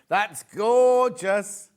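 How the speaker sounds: very slow, drawn-out through hiccups; suppressing hiccups. Real, not acted. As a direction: stretch each word to hold in a hiccup. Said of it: "Oh, I've got hiccups".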